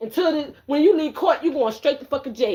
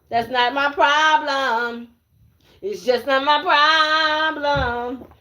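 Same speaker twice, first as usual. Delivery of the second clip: mocking drawl; 2 semitones higher, much slower than usual. Drawn-out mocking repeat.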